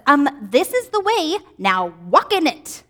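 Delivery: firm, slow, pointed mommy teacher tone; not calm. Shown as a demonstration. Teacher voicing God correcting a stubborn child, firm and pointed. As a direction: lay it down like a parent who knows better. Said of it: "not saying it in a calm voice".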